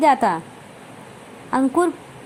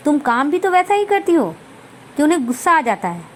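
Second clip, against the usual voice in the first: a raised, rushed rebuke to his wife; angry reproach; 3 semitones higher, faster than usual. Acted. Husband scolds sulking wife, quick and irritated. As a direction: snap back at her in a quick irritated rush. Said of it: "अंकुर भी नाराज़गी से कहता".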